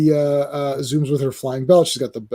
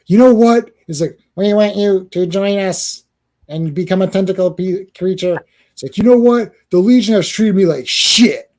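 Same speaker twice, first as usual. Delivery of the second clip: defiant character voice; 4 dB louder than usual. Acted. Voicing Ultra Boy betraying.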